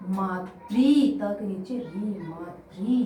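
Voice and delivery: मातृ spelled out slowly, stressing मा; slow classroom spelling of मातृ; slow careful syllables. Shown as a demonstration. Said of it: "मातृ मतलब तो केवल हो गया".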